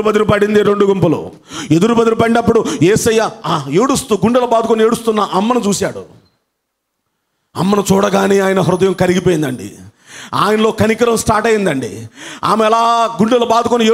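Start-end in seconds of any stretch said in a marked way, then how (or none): none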